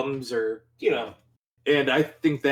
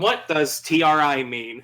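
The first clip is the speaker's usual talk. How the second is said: lightly imitated singer's put-on voice; a hint of the musician's affected talk. Contrasting his normal talk, light singer impression. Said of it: "and he's like".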